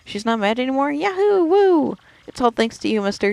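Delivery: put-on overjoyed kid. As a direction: shout for joy like a child. Bub voiced, overjoyed.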